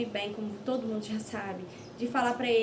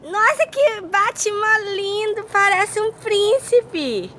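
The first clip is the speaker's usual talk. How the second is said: slow delighted praise; 9 semitones higher, 11 dB louder, much slower than usual. Real, not acted. Praising child's costume.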